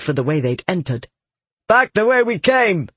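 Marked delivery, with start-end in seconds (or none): 1.7-2.9 raised, urgent shout; high-pitched call to fall back; shouted order. A narrator's reading. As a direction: shout the retreat to the group. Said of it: "he shouted".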